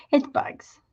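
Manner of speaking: whispered "It's bugs." breathless and hushed. Retold or imitated. Host whispering her disbelief at opening the kit. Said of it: "I was like".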